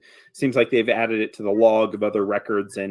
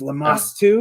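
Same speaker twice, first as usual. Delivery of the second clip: gravelly voice; 8 semitones higher than usual. Acted. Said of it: "he says it in a gravelly voice".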